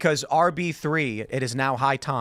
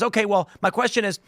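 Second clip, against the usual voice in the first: pompous journalist; 5 semitones higher than usual. Retold or imitated. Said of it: "And then he says".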